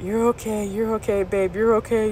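quiet comforting partner; reassuring. Retold or imitated. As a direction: gently talk someone down. Acts out partner soothing her.

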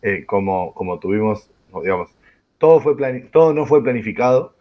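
strange, damaged-sounding voice; broken voice. Real, not acted. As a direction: talk through a worn-out voice. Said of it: "con una voz averiada".

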